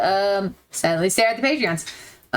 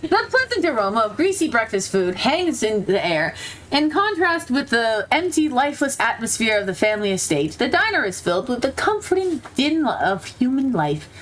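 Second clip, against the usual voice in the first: story narration. A narrator's reading. Reads the game's narration aloud.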